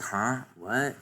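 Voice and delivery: high, startled double take; surprised Nami. Retold or imitated. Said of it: "Nami's like".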